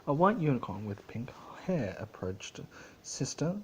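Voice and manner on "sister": clipped, higher stern greeting; a touch of sternness toward her sister. Acted. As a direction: call her out coldly. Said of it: "she said in a stern voice".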